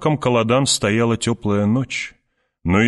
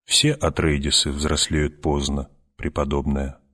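soft contralto; 4 semitones lower than usual. Acted. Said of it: "ответила своим мягким контральто".

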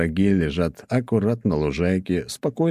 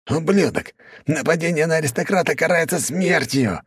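offended hiss; 11 semitones higher than usual. A narrator's reading. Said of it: "шипел обиженный отец".

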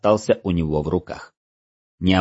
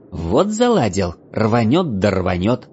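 mocking mimicry; slower than usual. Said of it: "начал передразнивать эльф".

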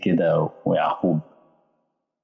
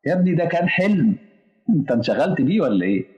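mocking friend; 7 semitones higher than usual. Preacher voices a mocking listener.

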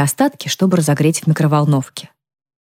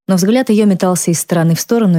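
plain reading voice

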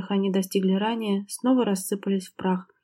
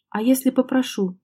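a sharp, higher challenge, mildly voiced; sharp question; 4 semitones higher, 3 dB louder than usual. Husband sharply challenging his wife's refusal to stay. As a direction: snap the question back at her. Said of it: "резко спросил Миронов".

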